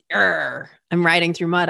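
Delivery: a mild, dragged-down complaint; frustrated grumble. Acted. Cyclist grumbling to herself about riding through mud, frustrated. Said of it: "instead of having that feeling of".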